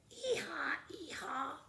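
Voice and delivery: high, loud ee-haw bray; the cow making a donkey's bray. Acted.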